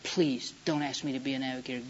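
low, subdued plea in retold prayer; quiet re-enacted begging; begging God. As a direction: plead softly, voice dropped. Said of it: "as I begged God".

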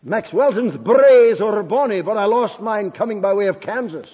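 lightly imitated Scottish burr; Scottish accent. Preacher quoting a young Scot's line to the congregation, Scottish accent. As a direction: put on a touch of a Scottish lilt. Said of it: "plenty of accent".

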